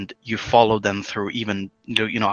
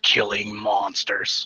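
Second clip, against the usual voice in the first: put-on cringy hero voice. Retelling a game scene, quoting Geralt's reply in his cringy super voice. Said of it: "very cringy with the super voice".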